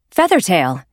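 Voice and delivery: Blue Star surprised at a cat arriving; glad exclamation. Acted. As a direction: call out her name in surprise. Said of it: "Blue Star exclaimed".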